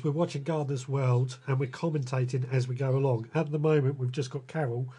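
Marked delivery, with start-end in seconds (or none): 3.3-4.9 talking while eating dinner; words round a bite of food; mouth full. Real, not acted. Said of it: "I'm just trying to finish off my dinner".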